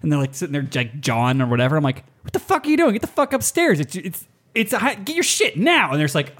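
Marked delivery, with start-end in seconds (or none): 2.2-5.9 high mock yell, pitched way up; retold yell at kids. Pipe major yelling at late kids, high mock yell. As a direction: bark at the late kids to get upstairs.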